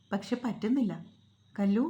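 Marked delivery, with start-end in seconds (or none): 1.5-1.8 louder calling shout, not raised in pitch; a loud, level shout of "Kallu". Acted. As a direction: call her name firmly from afar. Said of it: "കണ്ണൻ്റെ വിളിയൊച്ച".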